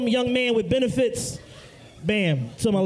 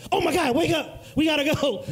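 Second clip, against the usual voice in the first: frantic; 5 semitones higher than usual. Retold or imitated. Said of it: "wake up frantically like".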